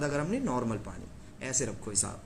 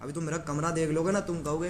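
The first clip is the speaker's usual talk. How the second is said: normal talking voice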